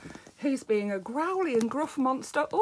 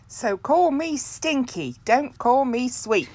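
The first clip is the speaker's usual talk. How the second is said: louder, punchy call; loud monster refrain; 2 semitones higher, 7 dB louder than usual. Acted. Muddy little monster insisting to everyone, loudly. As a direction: belt out the refrain proudly.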